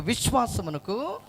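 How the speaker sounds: slow call with a rising end; drawn-out prompt. Shown as a demonstration. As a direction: stretch it out as a cue for the crowd to repeat. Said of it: "ఇంకో కొంచెం గట్టిగా".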